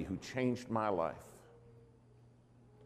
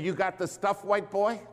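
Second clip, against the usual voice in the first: higher, rising dare; a hint of a sassy church lady testing him; challenging church lady; 9 semitones higher, 3 dB louder than usual.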